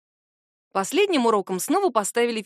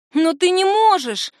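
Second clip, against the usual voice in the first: panicked cry, higher, louder and slow; 8 semitones higher, 7 dB louder, slower than usual. A narrator's reading. Heroine to Ren, panicking at his promise of protection. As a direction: blurt it out in open panic. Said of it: "откровенно запаниковала я".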